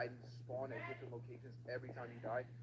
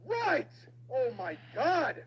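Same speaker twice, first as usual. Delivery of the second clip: shrieked high, loud callouts; frantic shouting; 8 dB louder, slower than usual. Real, not acted. Gamer fleeing the monster, shrieking directions. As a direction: yell each direction in panic.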